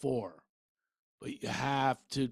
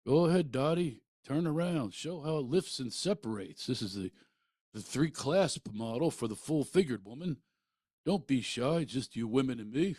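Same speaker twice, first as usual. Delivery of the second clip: salesman dad; 3 semitones higher than usual. Retold or imitated. Dad voiced selling bras.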